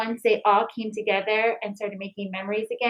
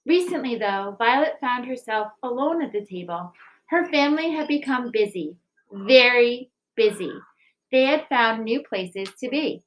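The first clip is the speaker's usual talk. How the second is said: gentle picture-book reading, even and clear; story narration. A narrator's reading. Teacher reading a picture book to the school, gentle narration. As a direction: read it like storytime for children.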